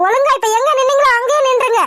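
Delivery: stern order. Acted. Wife orders husband to keep away.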